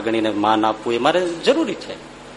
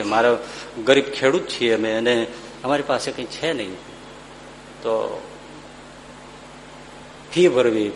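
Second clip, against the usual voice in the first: put-on sad boy; 4 dB quieter than usual. Poor boy tells why he cries.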